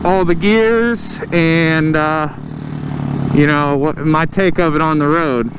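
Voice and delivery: talking through a face mask; muffled by face mask. Real, not acted. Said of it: "Sorry if I'm a little muffled".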